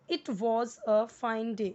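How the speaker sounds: it was a fine day read slowly and clearly, was with a v sound; careful model reading. Shown as a demonstration. Teacher giving the right reading to copy. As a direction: model each word slowly. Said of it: "ध्यान देना है".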